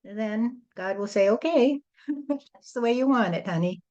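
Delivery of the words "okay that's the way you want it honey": amused indulgent God. Acted. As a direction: give in with a little laugh. God humoring a stubborn person.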